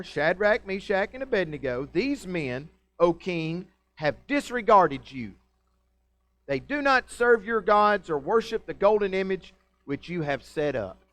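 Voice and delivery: mildly hammed-up tattling; dramatic accuser. Chaldeans tattling on the three Jews, dramatic. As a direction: drag out the accusation for effect. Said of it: "they were being very dramatic".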